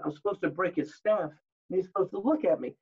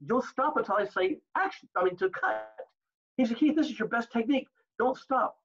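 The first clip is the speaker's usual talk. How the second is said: retold scolding, pitched higher; mild mock telling-off, sharp and raised; mad director; 5 semitones higher than usual. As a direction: director scolding an actor who stopped mid-take. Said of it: "That's when Samuel got mad at me".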